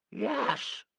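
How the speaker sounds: quiet high grudging yes; grudging child. A narrator's reading. Sissy conceding to the men, grudging. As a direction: give in sulkily like a child. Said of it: "conceded Sissy".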